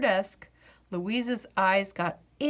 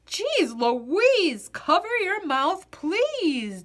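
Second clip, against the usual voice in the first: loud, higher, barked scolding; sort of barking; 7 semitones higher, 4 dB louder, slower than usual. A narrator's reading. Daddy scolding Louise at storytime, loud barking voice. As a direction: bark it out like a cross dad. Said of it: "in an also sort of barking voice".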